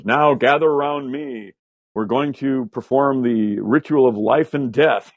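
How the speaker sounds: slow, grand stage-magician delivery; booming theatrical voice. Retold or imitated. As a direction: intone it slowly like a carnival showman. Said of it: "he has this booming voice".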